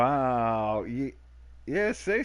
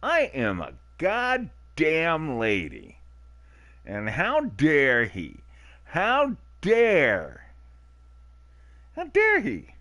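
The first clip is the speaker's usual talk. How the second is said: slow, rising hammed-up indignation, climbing much higher and louder; mock outrage; 6 semitones higher, 5 dB louder, slower than usual. Streamer mock-outraged at the date's question. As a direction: play the offended lady, getting shriller each time.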